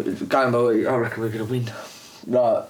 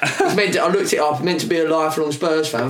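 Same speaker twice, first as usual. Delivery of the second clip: ordinary talk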